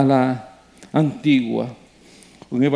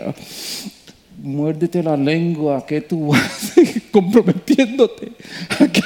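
scolding inner voice; slower than usual. Retold or imitated. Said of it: "yo dije".

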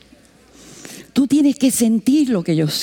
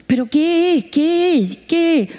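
insistent question; 6 semitones higher than usual. Retold or imitated. Her pressing question retold.

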